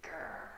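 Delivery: soft mock growl; small, play-acted grr; pretend angry growl. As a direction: growl gently, playing at angry for children. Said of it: "Make a angry face".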